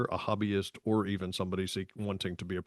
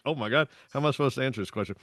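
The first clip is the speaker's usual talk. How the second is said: mock terror; 2 semitones higher, much faster than usual. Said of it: "total terror".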